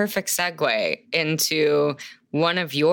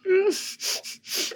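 slurping through straw; 4 dB quieter than usual. Real, not acted. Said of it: "Sorry, I'm slurping".

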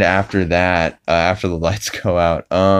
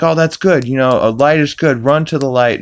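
Peter impression; 7 semitones higher, 3 dB louder than usual. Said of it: "Peter's like".

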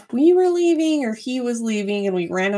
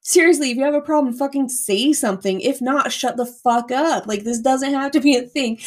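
angry yelling; 3 semitones higher than usual. Retold or imitated. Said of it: "screaming drunk girl".

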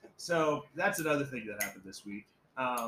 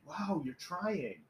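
slow, higher condescending wow; mock patronizing; 5 semitones higher, much slower than usual. Liberal Muslims mocking his greeting, patronizing. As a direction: drag out the praise like a pat on the head. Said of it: "Muslims that are like".

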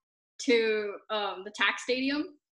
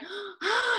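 high mock gasp; imitated gasp; 9 semitones higher than usual. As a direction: gasp like a panicked friend. Imitates friend's panicked gasp.

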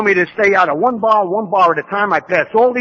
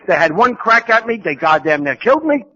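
fed-up outburst; 3 dB louder than usual. Retold or imitated. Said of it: "I said".

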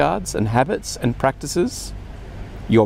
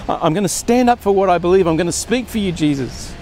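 a run of keen, higher promises; eager resolutions; 3 semitones higher than usual. Retold or imitated. Preacher voices his own Sunday vows to the Lord, eager and higher. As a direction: promise it all, eager and sincere. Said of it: "I'm full of good intentions".

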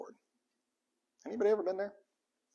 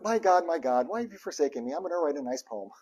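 calm recital. Shown as a demonstration. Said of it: "It wasn't ... It was".

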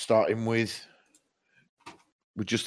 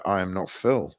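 metal growl. Acted. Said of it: "if you were live on the download stage".

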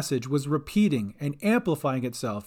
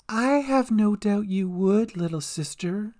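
taunting villain; 6 semitones higher than usual. A narrator's reading. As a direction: draw it out, mocking. Villain taunts Sister Cat.

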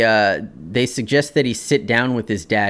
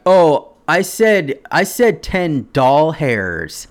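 Bart mocking; 3 semitones higher, much slower than usual. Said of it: "he was like".

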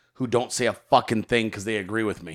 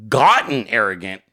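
incredulous; 4 semitones lower than usual. Retold or imitated. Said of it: "And I thought".

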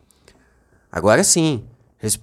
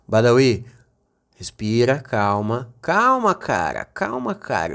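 calming; 8 semitones lower than usual. Acted. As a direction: settle him down gently. Calming nervous co-host.

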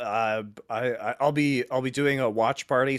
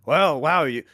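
smiling menacing loan shark; 3 semitones higher than usual. Retold or imitated. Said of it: "protection racket".

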